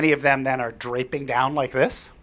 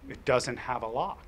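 stone cold; 3 semitones lower, 7 dB quieter than usual. Retold or imitated. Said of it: "she looks at me stone cold".

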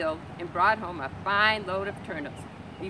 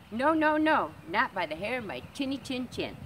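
squeaky piggy refusal; 5 semitones higher than usual. Acted. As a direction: squeal no at the wolf. Pig refuses the wolf.

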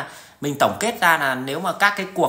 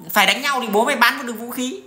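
mock gloating; 6 semitones higher than usual. Mocking big arms-selling nation.

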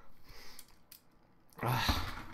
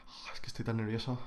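whisper; 10 dB quieter than usual. Real, not acted. Nervous aside before checking count.

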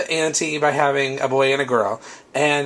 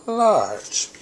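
big voice for large; 7 semitones higher than usual. Shown as a demonstration. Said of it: "you can see the scale difference".

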